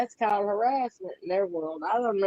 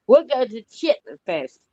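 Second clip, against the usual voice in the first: louder, hearty calling out; loud invitation; 4 semitones higher, 10 dB louder than usual. Real, not acted. Inviting her friend down to South Carolina, loud and hearty. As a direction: boom it out like you're hollering across the yard.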